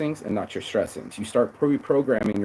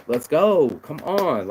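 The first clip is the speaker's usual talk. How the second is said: a pushy call, louder on the first words; 4 semitones higher, 4 dB louder, slower than usual. Retold or imitated. Impatient boss urging a slow coworker, pushy call. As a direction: hurry someone along like an impatient boss. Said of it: "talking down to him".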